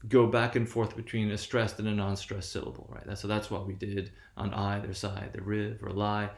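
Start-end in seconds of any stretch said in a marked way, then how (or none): 4.4-6.3 slow, measured poetry reading with a lilting beat; a slow sing-song recital of the poem. Shown as a demonstration. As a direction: read it like verse, letting the stresses alternate. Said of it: "And that's Alfred Lord Tennyson".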